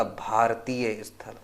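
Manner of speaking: भारतीय drawn out slowly, set apart as the key word; emphasis on भारतीय. Shown as a demonstration. Teacher pointing students to the key word, stress on भारतीय. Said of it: "बस इस word पे ध्यान दीजिएगा".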